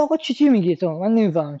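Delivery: a lightly voiced baffled listener; hint of confusion, then rushing; confused listener. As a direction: play the puzzled listener who doesn't get it. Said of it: "این میگه".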